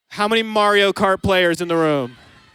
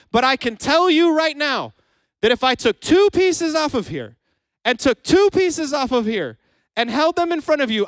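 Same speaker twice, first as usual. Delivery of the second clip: raised, louder preaching voice; yelling moment; 5 semitones higher, 3 dB louder than usual. Real, not acted. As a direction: push it out, fired up and louder. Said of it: "I was in a yelling moment".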